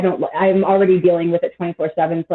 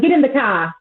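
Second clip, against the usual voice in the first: put-on Boston accent; 5 semitones higher than usual. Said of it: "you're thinking of Boston".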